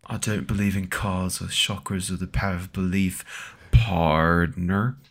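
light British line ending in drawled partner; lightly voiced Doctor Strange. Mock Doctor Strange ending in an American drawl. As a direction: Cumberbatch gone cowboy. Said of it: "Benedict Cumberbatch, Doctor Strange".

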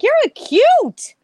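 high, slow, loud put-on druggie voice; a crack user cooing at a child; stoned man. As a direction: drawl it like a high guy. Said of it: "he's like".

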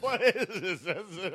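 high, loud mock catchphrase; squeaky catchphrase voice. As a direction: squeal it like a silly sitcom line. Repeating catchphrase in character.

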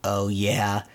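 low, level parroting; deadpan imitated comeback; spring's echo. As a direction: echo it back in monotone. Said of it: "the echo of his voice".

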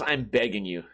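ordinary talk, nothing marked

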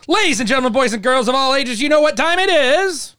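booming showman announcer; ringmaster. Pretend. Trivia intro announcement.

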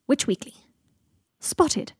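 bouncy society-column announcer delivery; gossip magazine read. A narrator's reading. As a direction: announce it like juicy celebrity gossip. Reads gossip magazine report.

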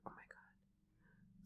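very soft, slow whisper; whispered alarm. Retold or imitated. Watching a friend look unwell at dinner, whispered alarm. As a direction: breathe it almost silently, aghast. Retold reaction to sick friend.

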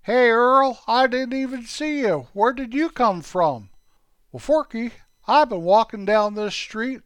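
put-on high, eager boyish voices of two kids. Two boy buddies chatting about toothpicks, high and eager. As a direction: play two excited young friends. Kids Forky and Earl talk.

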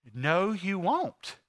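slow, deliberate denial; measured refusal. Acted. Master answering the servant's impossible promise, slow refusal. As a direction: answer slowly, word by word.

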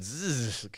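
quiet imitated buzz; mock buzzing noise. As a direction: make a short dismissive "zzz". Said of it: "I'm just like".

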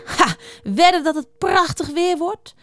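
high, eager storybook voice; pleased with the morning, lifted pitch; cheerful hare. A narrator's reading. Hare greets the early morning, cheerful and eager.

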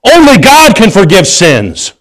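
high, drawn-out mock outcry; hammed-up indignant wail, falling at the end; berserk outrage. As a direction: cry it out slowly like scandalized religious people. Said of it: "the religious people went berserk".

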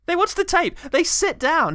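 high and loud, mock-epic; hammed-up dramatic echo; mock dramatic announcement. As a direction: announce it like a trailer voice.

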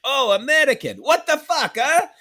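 high, loud excited foreign driver; Uber driver impression. Uber driver greeting the American passenger, high excited squeal. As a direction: squeal it like a delighted cab driver. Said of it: "he was just like".

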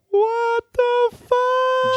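slow, high shocked "what the fuck"; shocked outburst. Retold or imitated. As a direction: drag it out in disbelief. Everybody reacting to Daenerys roasting.

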